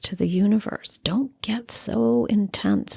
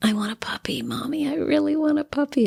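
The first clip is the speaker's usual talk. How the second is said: put-on higher, faster, eager child begging; excited child; 7 semitones higher, faster than usual. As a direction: whine for the puppy like an excited kid. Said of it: "the child's so excited".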